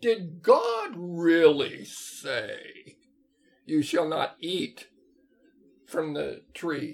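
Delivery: sly, sneaky, swooping, sing-song snake voice. Retelling Genesis, voicing Satan speaking to Eve, sly Satan serpent voice. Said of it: "It's a good serpent voice".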